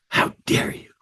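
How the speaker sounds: huffy breath, then indignant whispery words; in a huff. Shown as a demonstration. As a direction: huff out an offended reproach. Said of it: "I'm in a huff ... how I'm breathing".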